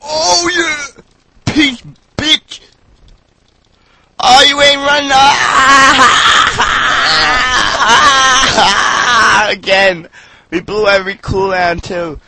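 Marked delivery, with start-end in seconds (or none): 0.0-10.1 laughing triumphant shout. Real, not acted. Gamer shouting at fleeing foe.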